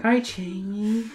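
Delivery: slow, weary, just-woken voice; sleepy husky good morning. Acted. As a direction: croak it out half asleep. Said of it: "in a weary morning voice".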